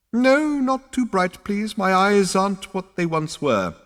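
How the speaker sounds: high, creaky ancient ancestor; old ghost voice. A narrator's reading.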